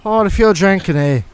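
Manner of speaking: mock Irish lilt; Irish accent. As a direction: toss off a pub Irish line. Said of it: "It's the Irish Spirit".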